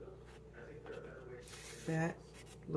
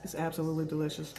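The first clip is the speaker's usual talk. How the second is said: talking while chewing; mouth full; much faster than usual. Real, not acted. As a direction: speak through a mouthful. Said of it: "Quit talking with my mouth full".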